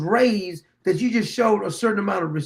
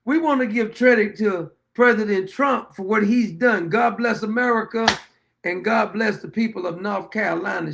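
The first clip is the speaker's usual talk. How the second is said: imitating the sister. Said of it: "the old bag's sister says".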